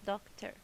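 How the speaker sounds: "doctor" as doc, then ter; clapped-out syllables. Shown as a demonstration. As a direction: beat out both syllables of "doctor". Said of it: "Let's do it by clapping to make sure".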